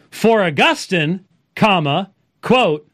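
reading the punctuation aloud, slowly; dictating. Shown as a demonstration. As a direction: spell out the commas like dictation. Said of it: "here's Wilson's use".

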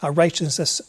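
steady, reverent prayer voice; closing prayer. Acted. Pastor praying over his congregation, reverent. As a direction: pray it sincerely for the room.

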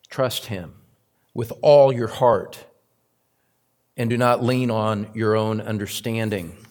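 deliberate verse reading with pauses; measured, careful Bible reading; slow scripture reading. Shown as a demonstration. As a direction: pause between phrases of the verse. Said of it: "I'll read it slowly".

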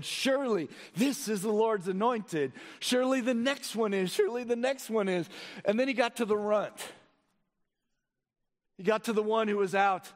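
animated preaching. Real, not acted. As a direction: act out the Bible story from the pulpit. Preaches the story of Samuel.

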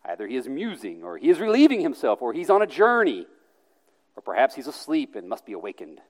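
taunting, pitch swinging up then dropping; sly, teasing speculation; mocking. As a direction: muse aloud with mock concern. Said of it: "Elijah mocked them".

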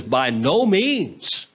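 slow, drawn-out "By no means"; emphatic denial. Retold or imitated. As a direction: deny it firmly, stretching "By no means". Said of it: "with an emphatic denial".

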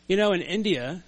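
"in India" in a light Indian accent. Shown as a demonstration. Preacher telling a story about India, light Indian accent. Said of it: "I just said it with an Indian accent".

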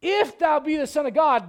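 the devil daring Jesus to prove himself; taunting devil. Retold or imitated. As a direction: sneer the dare at him. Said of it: "The devil. He goes".

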